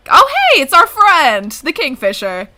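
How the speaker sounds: high loud eager hello; excited greeting. Acted. Friend spots the Kingfisher and calls out excitedly. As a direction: call out happily to a friend.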